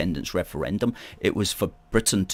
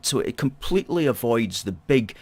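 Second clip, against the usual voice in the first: ordinary delivery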